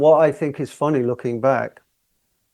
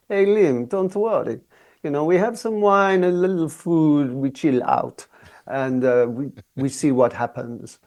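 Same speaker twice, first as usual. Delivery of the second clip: put-on a light, relaxed Italian accent, raised at the start; lightly imitating a laid-back Italian producer. Producer reassuring the singer over the talkback, in a light Italian accent. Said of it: "very cool with his Italian accent".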